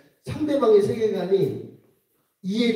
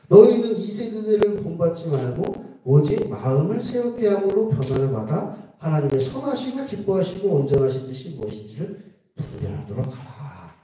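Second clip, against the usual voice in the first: scripture reading; 2 semitones lower than usual. Acted. Pastor reciting Romans to the congregation, solemn. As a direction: read the verse with reverence.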